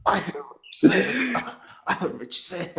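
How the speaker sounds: British accent attempt, pitched high. Podcast host jokingly answers co-host, attempted British accent. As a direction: have a bad go at a British accent. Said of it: "I can't do a British accent".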